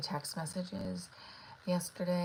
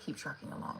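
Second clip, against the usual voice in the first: whispered; 8 dB quieter than usual. Shown as a demonstration. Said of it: "but what does that mean?".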